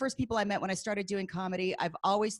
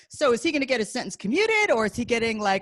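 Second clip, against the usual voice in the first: mock confused comedian; 4 semitones higher, 7 dB louder than usual. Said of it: "And then he's like".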